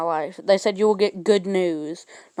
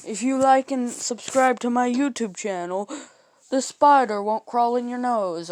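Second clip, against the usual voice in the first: lightly voiced chain message, higher; mock chain message; 4 semitones higher than usual. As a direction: read it like a spooky chain letter. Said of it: "That where".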